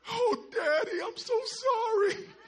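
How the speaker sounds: high, slow mock child sob; a lightly played child begging; crying child. Child apologising to father, mock crying.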